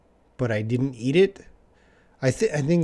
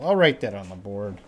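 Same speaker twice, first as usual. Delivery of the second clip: usual speaking voice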